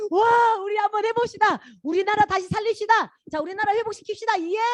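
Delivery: high, eager cheering people; rally everyone with a hopeful cheer; excited crowd. Retold or imitated. People of Jerusalem cheering to rebuild, high and eager. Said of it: "다 좋아가지고".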